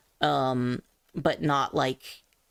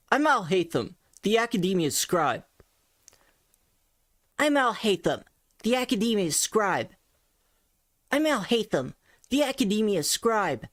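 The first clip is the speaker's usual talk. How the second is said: put-on a touch higher, light and boyish; light youthful voice; 4 semitones higher than usual. Shown as a demonstration. Coach tries a light boyish take on the character. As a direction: lift the voice, keep it light. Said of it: "twinkish voice".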